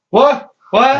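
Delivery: high, loud startled double what; a kid suddenly handed the pipe, startled. Retold or imitated. Pipe handed to him, quoted.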